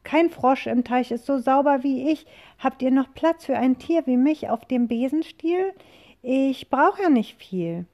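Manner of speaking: high, loud croaky frog pleading. Acted. Frog begging the witch for a ride, high and eager.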